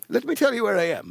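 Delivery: lightly mimicked British caller; imitating a singer. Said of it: "that's my British accent".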